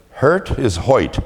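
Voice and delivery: put-on slow Brooklyn accent, laughing. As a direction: drawl it like a Brooklyn announcer. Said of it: "you talk about a, a Brooklyn accent".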